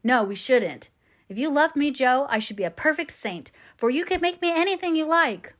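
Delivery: high rapturous voice, eager and swept away. A narrator's reading. Laurie pleads with Joe to marry, rapturous and high. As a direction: pour out a lover's eager hope. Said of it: "uttered it with a rapturous expression".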